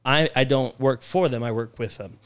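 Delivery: I work WITH them, with leaned on; don't work for them, work WITH them; stress on with. Shown as a demonstration. Owner stressing with, not for, to his staff. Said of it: "although I never said those words".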